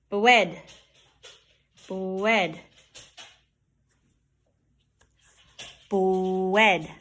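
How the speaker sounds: bread said as "bwed"; "Bread" with R turned into a long W. Shown as a demonstration. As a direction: slip a W into "Bread", slowly rounded.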